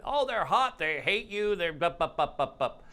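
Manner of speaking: teasing imitation of an upset client; mock ranting. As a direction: rattle off an angry person's ranting. Mimicking angry client complaints.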